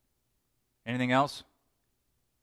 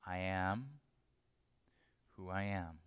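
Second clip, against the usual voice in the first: hushed; 8 semitones lower, 13 dB quieter than usual. Acted. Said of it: "And I'm answering you".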